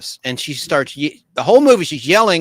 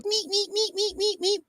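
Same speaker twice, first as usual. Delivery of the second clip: high, soft squeaky toy noise; 7 dB quieter than usual. Retold or imitated. Telling about the dog's chew toy, high soft squeak. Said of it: "It goes".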